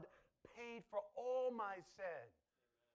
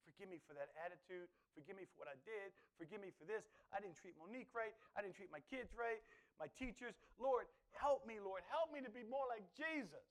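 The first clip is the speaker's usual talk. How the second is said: humble prayer. Pretend. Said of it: "I should be".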